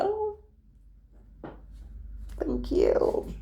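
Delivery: a high airy startled thanks; mock flattered. Man kisses her hand.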